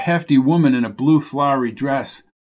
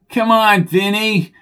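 loud, higher cheer for a horse; crying out; 7 semitones higher, 3 dB louder, slower than usual. A narrator's reading. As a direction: call out urging the horse. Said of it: "cried Coco".

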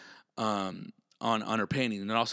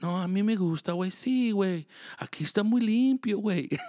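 higher-pitched Spanish-speaking cousin voice; imitating his cousin; 6 semitones higher than usual. Cousin saying he likes it here, imitated higher voice. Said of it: "he always likes it here".

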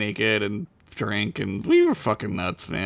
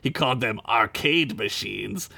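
lightly voiced Gorn, deliberate delivery. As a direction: read it as a pompous alien reptile. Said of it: "you do a Gorn voice this time".

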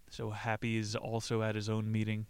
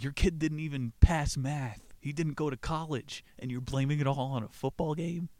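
scolding Willie; 5 semitones higher, 4 dB louder than usual. Retold or imitated. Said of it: "And he's like".

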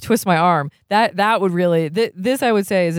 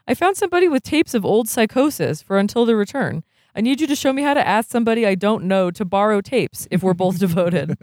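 slightly raised, earnest character voice; a hint of a higher character voice; lightly voiced younger brother; 3 semitones higher than usual. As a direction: read the brother's plea a little higher. Voices Mario in the story.

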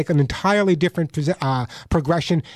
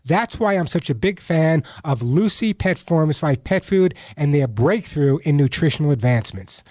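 measured radio ad voice, leaning on the product name; ad read. Acted. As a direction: sell the pet food like a trusted host. Host reads a pet food ad.

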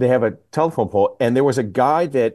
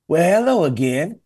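higher-pitched, hammed-up come-on; mock flirtation; 6 semitones higher than usual. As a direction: imitate a shameless flirt greeting her. Arrested man flirts with wife again.

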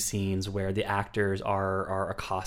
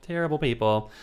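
higher-pitched, put-on lament; mock tearful wail; 5 semitones higher than usual. Actors blaming themselves as they cry, mock tearful. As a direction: echo it as a mock tearful confession. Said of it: "They all start crying".

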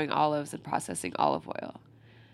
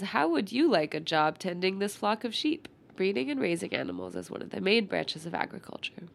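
stuffy nose. Real, not acted. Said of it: "sorry I'm so stuffy".

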